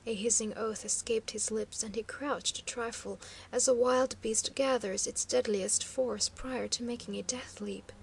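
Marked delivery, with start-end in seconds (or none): none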